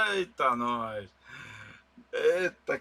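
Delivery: coughing after swallowing wrong; recovering from a choke; choking on water. Real, not acted. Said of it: "tô até engasgando com a água".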